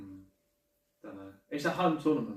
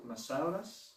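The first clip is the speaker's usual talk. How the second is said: Greek accent; 6 dB quieter, slower than usual. Real, not acted. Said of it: "you sound very Greek to me".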